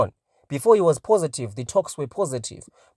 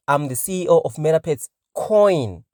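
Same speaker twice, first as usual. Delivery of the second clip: coin pressed harder and louder at the end; emphasis on coin; 2 semitones higher, 4 dB louder than usual. Retold or imitated. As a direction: lean into the word coin as you quote him. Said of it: "with an emphasis on coin".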